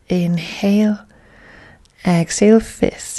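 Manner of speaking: measured, paused yoga-class cueing; guided yoga instruction. Real, not acted. Yoga teacher guiding class through breaths, calm measured instruction. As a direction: cue each breath and movement, leaving space.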